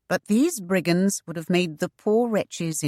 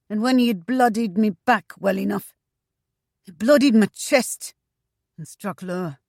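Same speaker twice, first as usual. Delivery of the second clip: bitter eunuch brigand; 5 semitones higher than usual. Acted. Mother recounts his torture, rising and bitter. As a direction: let the old grievance build, pitched up.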